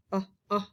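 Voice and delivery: "Uh, uh" as two short separate vowels; isolated vowel sound. Shown as a demonstration. Teacher isolating the sound in gar, "Uh, uh" as short vowels. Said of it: "I think it's a short sound".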